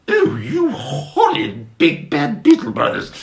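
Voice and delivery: very high, loud squeaky voice; frightened high ladybird. Acted. Mister Ladybird confronted by the beetles, frightened squeak. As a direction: squeak out in alarm. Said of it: "said Mister Ladybird".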